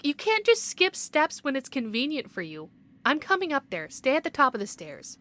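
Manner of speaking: loud, firm reprimand from an annoyed official; stern scolding. Acted. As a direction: lay down the law, no room for argument. Official scolds team for skipped steps.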